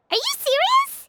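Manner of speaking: can't believe what she heard; stunned disbelief. Acted. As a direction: pitch leaps up in shock. Paimon stunned by news.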